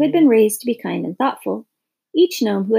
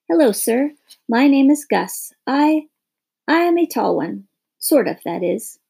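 higher, bravely; brave little boy; 3 semitones higher than usual. Acted. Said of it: "said the boy rather bravely".

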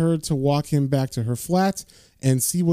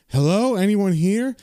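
calling out; 5 semitones higher than usual. Retold or imitated. John calling into empty flat.

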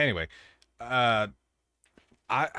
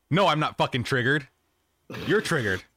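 defensive; 3 semitones higher, 3 dB louder than usual. Real, not acted. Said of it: "something someone who's triggered would say".

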